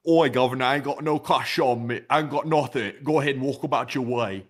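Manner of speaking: put-on Cockney beggar-refusing accent; British "governor" accent. Brushing off a homeless man, mock British accent. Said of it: "you gotta get the accent".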